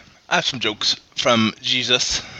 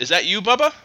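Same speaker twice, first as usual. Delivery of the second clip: higher-pitched wife's voice; coach's wife asking; 8 semitones higher than usual. A narrator's reading. Wife asking from the shower, high questioning voice. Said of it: "stuck her head out of the shower and asked".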